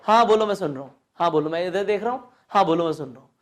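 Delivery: absent-minded brush-off. Shown as a demonstration. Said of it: "कुछ लोग ऐसे बोलते हैं".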